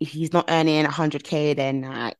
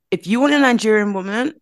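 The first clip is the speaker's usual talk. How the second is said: put-on higher-pitched stab at an American accent; attempted American accent; 4 semitones higher than usual. Podcaster quoting the friends' warning, attempted American accent. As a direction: quote her in a tentative American accent. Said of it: "let me just do my British accent".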